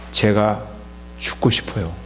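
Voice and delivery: falling low and soft; father ending his plea, dropping low and soft; quiet tearful close. Retold or imitated. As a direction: let it sink low and soft like a choked confession. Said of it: "그러면서 울더라고요".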